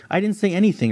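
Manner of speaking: high, shocked denial. Acted. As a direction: blurt it out in shock. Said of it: "replied a shocked Livery".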